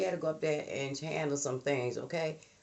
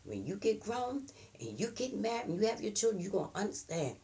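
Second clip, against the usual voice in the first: a hint of a knowing mom, higher; lightly voiced mother, matter-of-fact; lecturing mother; 6 semitones higher, 3 dB quieter than usual. Mother warning her child about the future, lightly voiced. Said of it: "But she said".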